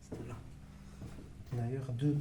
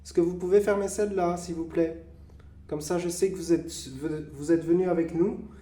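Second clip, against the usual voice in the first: loud and clear to the dark; calling out; 4 semitones higher, 6 dB louder than usual. Acted. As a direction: ask the spirits loudly to act. Redemande aux esprits. (appel fort aux esprits)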